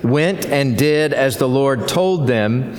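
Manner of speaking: congregation reading aloud together; many voices in unison. Real, not acted. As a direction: read it together as one body. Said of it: "we'll read it aloud together".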